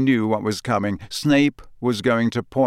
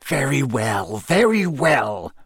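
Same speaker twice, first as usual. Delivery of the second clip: snapped; 3 semitones higher, slower than usual. A narrator's reading. Teacher cutting off the pupil, irritated. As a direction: give in crossly, building in impatience. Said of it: "Snape snapped".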